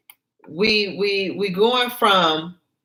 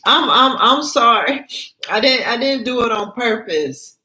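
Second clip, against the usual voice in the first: higher, stammering teary apology; crying apology; 5 semitones higher than usual. Acted. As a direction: plead sorry through tears. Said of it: "Gina's apologizing, crying".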